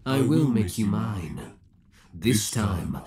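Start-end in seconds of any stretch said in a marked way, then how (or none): 0.1-1.5 possessive outburst. Acted. Villain snaps at the captive darling, sudden outburst. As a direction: flare up with obsessive insistence.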